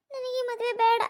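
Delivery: crying through the words; choked-up tearful no; tearful refusal. Acted. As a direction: refuse the wedding while holding back sobs. Distressed bride refusing her marriage.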